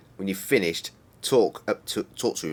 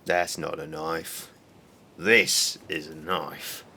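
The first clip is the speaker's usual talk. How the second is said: slow, lightly Australian drawl of the knife line; a mild Crocodile Dundee Australian voice, unhurried; Australian accent; 3 semitones lower, much slower than usual. Retold or imitated. Quoting Crocodile Dundee to the viewers in a slow Australian accent. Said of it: "I'm not still trying to be Australian".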